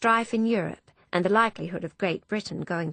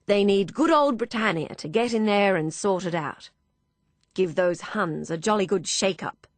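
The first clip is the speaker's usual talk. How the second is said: firm, louder officer voice; rally the room, confident; hearty military gentleman; Major declaring; 2 semitones higher, 4 dB louder than usual. Acted.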